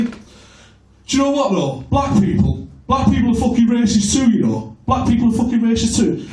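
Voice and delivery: mild impression of a pub know-all; pub racist. Bloke in a Wigan pub confiding his view to the comic, lightly imitated. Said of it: "And he said to me".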